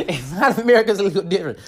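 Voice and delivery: quick aside through a laugh; amused, laughing repeat. Real, not acted. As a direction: chuckle as you concede it. Laughing while repeating own aside.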